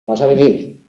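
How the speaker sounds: Vas a venir with a falling end; falling intonation. Shown as a demonstration. Teacher showing how intonation separates sentences, falling tune on Vas a venir. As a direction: let venir drop as a statement. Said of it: "Eso nos permite distinguir unas frases de otras".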